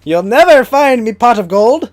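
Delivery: high, slow leprechaun voice with laughter. Acted. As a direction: cackle like a greedy leprechaun. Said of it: "rubs hands together menacingly".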